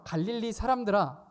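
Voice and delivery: 갈릴리 사람들아 called out loud and high like a rebuke; rebuking call demo. Shown as a demonstration. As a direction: show the congregation how to call it out. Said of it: "같이 해볼까요?". (갈릴리 사람들아를 크고 높게 외치듯이)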